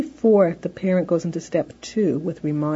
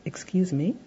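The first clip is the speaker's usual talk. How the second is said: blocking prompt; 5 dB quieter than usual. Shown as a demonstration. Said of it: "All we do is we say".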